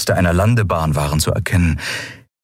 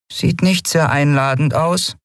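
higher voice for a small winged creature; doubtful little fairy, voice up high; light high creature voice; 9 semitones higher than usual. Acted. Nelen's voice.

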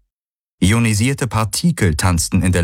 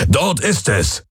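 excited character voice; 5 semitones higher, slower than usual. Acted. Hox spots the building.

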